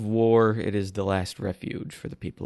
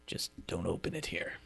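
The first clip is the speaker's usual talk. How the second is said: hushed; 2 semitones lower, 11 dB quieter than usual. Acted. Guard passing secret note.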